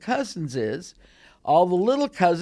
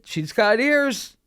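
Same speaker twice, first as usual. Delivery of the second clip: slow, higher knowing verdict; cousin's verdict; 5 semitones higher, slower than usual. Retold or imitated. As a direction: say it slowly as the final word. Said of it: "my second cousin said".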